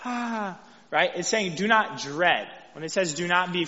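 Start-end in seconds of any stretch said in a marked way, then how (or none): 0.0-0.6 mock scared gasp. Shown as a demonstration. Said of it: "the way we think of scared, like".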